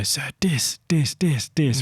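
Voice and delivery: put-on "Sir, dis" as an eager boy; imitating Indian boy. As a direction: say "dis", d not th. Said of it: "he'd say".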